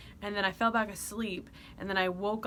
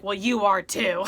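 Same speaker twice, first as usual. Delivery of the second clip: laughing; 9 dB louder than usual. Retold or imitated.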